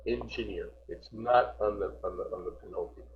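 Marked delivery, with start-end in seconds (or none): 0.1-0.7 "Engineer" said softly, final -neer carrying the accent; stress on last syllable. Shown as a demonstration. Teacher explaining the stress, soft "Engineer" stressed on the end. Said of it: "It's on the last one".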